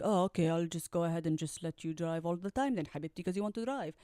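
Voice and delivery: imagined soulmate with a mock Arab accent; put-on Arab accent. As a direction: imitate an obliging man in an Arab accent. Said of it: "why he has an accent".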